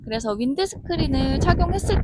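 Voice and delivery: speaking while walking away; far off outdoors. Real, not acted. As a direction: voice from a distance in wind. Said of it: "점점 뒤로 멀어지고 있고요".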